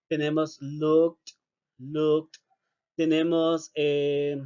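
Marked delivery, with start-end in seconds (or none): 0.6-2.4 "looked" said as /lukt/ with a T ending; teacher modelling the T ending. Shown as a demonstration. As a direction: drill "looked" with a crisp T. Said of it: "como una letra T".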